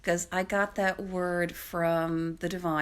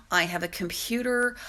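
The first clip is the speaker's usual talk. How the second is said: ordinary delivery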